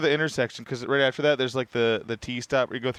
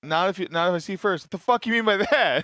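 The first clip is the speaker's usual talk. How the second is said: half-hearted angry rise, pitch higher; mock outrage at a harmless goodbye; mock offended outburst; 4 semitones higher than usual. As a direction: play it up as insulted. Acting offended at a farewell.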